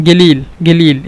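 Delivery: গেলিল with a hard g where standard has q; Saudi pronunciation. Shown as a demonstration. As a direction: say গেলিল with a g sound, not কলিল. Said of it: "সৌদিরা গিলিল ব্যবহার করে".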